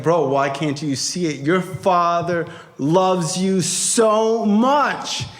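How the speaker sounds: drawn-out, emphatic reassurance; emphatic insisting friend. Retold or imitated. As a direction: stretch out the last words to drive it home. Friend insists father loves him.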